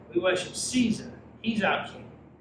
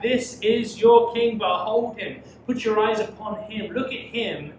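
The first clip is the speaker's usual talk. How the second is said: sarcastic; 5 semitones higher, 7 dB louder than usual. Acted. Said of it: "speaking with great sarcasm".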